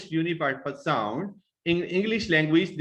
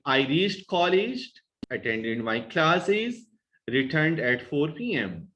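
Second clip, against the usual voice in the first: list-like phrasing, "college" and "classes" left unfinished; middle-pitch intonation. Shown as a demonstration. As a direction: pause after "college" and "classes", pitch held up until the end. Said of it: "Intonation is kept at a middle pitch to utter pauses".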